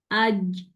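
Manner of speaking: "آج" ending in a voiced j; correct jeem. Shown as a demonstration. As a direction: close "آج" on a solid voiced j. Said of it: "پیچھے والے part میں لگاتی ہوں".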